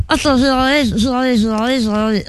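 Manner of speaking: muffled, repetitive mumble with a trapped tongue; tongue caught. Pretend. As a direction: struggle to talk while freeing your tongue. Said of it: "j'ai la langue gonflée".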